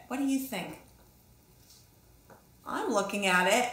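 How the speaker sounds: ordinary delivery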